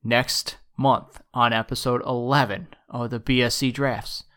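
booming epic trailer announcer; movie trailer voice. Acted. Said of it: "is that your, like, trailer voice?".

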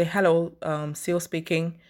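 calm, measured professional greeting; even-toned business hello; polite phone answer. Shown as a demonstration. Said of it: "in a polite manner".

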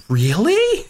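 high, incredulous Really; wife amazed. Retold or imitated. Imitating his wife's stunned question, high and incredulous.

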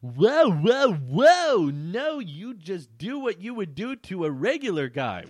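loud, high-pitched whoas, then high protest; hammed-up alarm; alarmed objection. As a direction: cut in to stop her, voice shooting up. Acting out alarmed narrator stopping Elaine.

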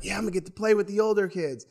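quick, eager kid's voice, lightly acted; retold excitement. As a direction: recall the thrill of being picked, brisk and bright. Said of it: "So I was all excited".

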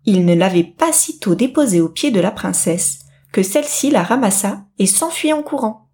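ordinary delivery, nothing marked

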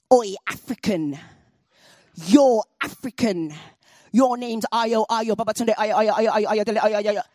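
sing-song the name to humiliate; mocking taunt.

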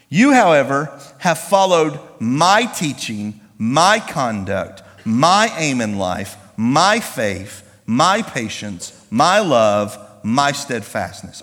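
slow, measured list with each "my" leaned on; preacher spelling out a verse item by item; emphatic scripture reading. Acted. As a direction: read it out deliberately, a pause after each item.

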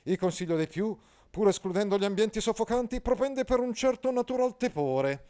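high, loud pompous knight; Agilulfo pompous. Acted. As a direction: declaim like a stiff courtly knight. Agilulfo lecturing. (Agilulfo, cavaliere pomposo, acuto e forte)

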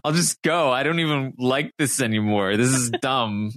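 mild huffy sulk, barely different from own voice; sulky Shannon impression. Brandy quitting the alliance, a light sulky Shannon impression. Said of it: "in her best, uh, Shannon impression".

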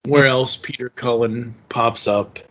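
ordinary delivery

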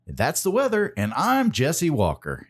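mock newsman closing the weather report; Jesse Walker impression. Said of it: "I can do a pretty good Jesse Walker impression".

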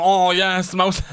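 put-on high, loud, drunk-happy cheer; mock delight. Late-night eater delighted by a samosa, mock cheering. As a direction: gush over the snack at 3am.

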